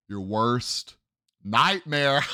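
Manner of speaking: nightmare shouted out, gloating. Real, not acted. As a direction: yell it like a taunt. Gloating over rival's bad draft.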